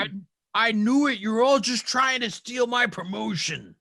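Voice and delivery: high, loud in-character outburst; indignant accusation. Acted. Game master's enemy accuses colleagues of stealing, indignant. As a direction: accuse them all in an aggrieved yell. GM voices paranoid enemy being shot.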